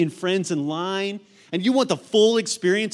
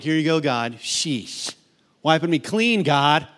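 reluctant giver; 4 semitones lower, slower than usual. Retold or imitated. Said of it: "It's not reluctantly".

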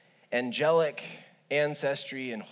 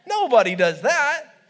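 emphatic; 10 semitones higher, 10 dB louder than usual. Real, not acted. Emphatic punchline denial.

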